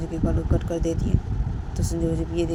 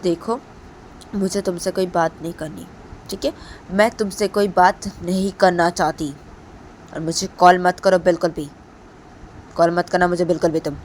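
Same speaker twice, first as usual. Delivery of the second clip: mild anger; 7 dB louder than usual. Acted. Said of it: "तो दीपांता बोलती है".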